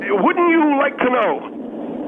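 slow, drawn-out sing-song tease; teasing taunt. Acted. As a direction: dangle the answer just out of reach. Teasing dodge of a question.

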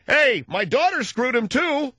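high, slow, hammed-up holler; mock calling out. Pastor hailing the press about his daughter, mock boasting. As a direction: call it out to get noticed.

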